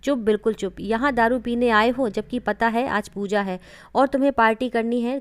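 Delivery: loud, sharp order to be silent; stern glaring scold. Acted. Mother-in-law silences her son's drinking friends, loud and stern. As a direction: shut the drunk friends up with force. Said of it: "घूरते हुए कहा".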